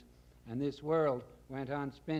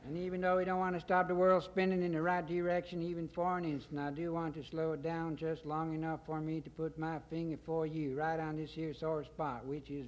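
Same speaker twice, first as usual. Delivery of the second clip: lightly voiced folksy president; hint of a grandiose political address; Colonel Corn Pone; 2 semitones higher than usual. Colonel ordering liberation before his gentlemen, lightly pompous folksy speech.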